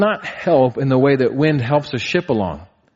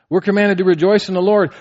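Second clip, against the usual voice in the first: We're commanded to rejoice in the Lord said higher and louder; preaching emphasis; 6 semitones higher, 3 dB louder than usual. Shown as a demonstration. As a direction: drive it home to the congregation. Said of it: "repeated with force".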